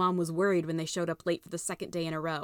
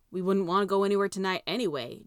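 muttered grumpily. Acted. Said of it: "Jess muttered grumpily".

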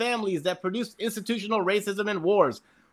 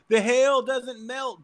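mocking dummies; 4 semitones higher, 3 dB louder, slower than usual. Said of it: "all these dummies were like".

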